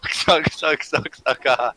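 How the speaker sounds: put-on goofy baby-talk rant, giggling; hammed-up silly baby voice; silly clown. Absurd mock confession bit.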